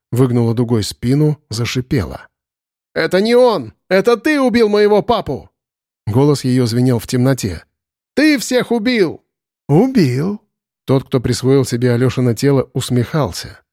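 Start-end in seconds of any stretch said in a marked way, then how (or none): 2.9-5.5 put-on high, ringing child's outcry; accusing cry. A narrator's reading. Elza accusing the killer, high ringing cry. 8.1-10.4 put-on much higher, slow child's cry; ringing accusation. A narrator's reading. Elza accusing the creature, high ringing cry.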